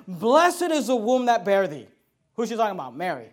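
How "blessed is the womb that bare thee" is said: slow, loud, declaimed Bible verse; scripture proclamation. Acted. Preacher reading the woman's words to Jesus, slow loud proclamation. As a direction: proclaim the verse slowly and strongly. Reads scripture aloud emphatically.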